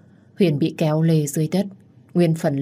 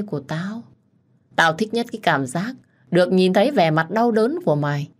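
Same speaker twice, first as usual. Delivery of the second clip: mocking taunt. Đức taunting Hùng, gloating. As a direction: gloat over his misery. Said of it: "bật cười ... đầy thách thức".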